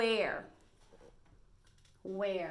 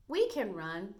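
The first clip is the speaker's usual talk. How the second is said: little dog's answer; 5 dB louder than usual. Shown as a demonstration. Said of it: "said a little dog".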